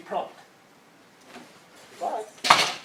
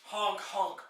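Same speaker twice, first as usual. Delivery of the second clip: silly clown honk; 4 semitones lower, 9 dB quieter than usual. Pretend. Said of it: "The clown has arrived".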